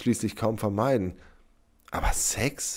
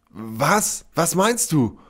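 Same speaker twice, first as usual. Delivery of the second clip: louder, rising panic; 8 semitones higher, 6 dB louder, much slower than usual. A narrator's reading. Sepp presses Sybil for meaning, panicking. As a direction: pitch and volume climbing fast. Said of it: "Sepp wurde jetzt lauter. Panik stieg".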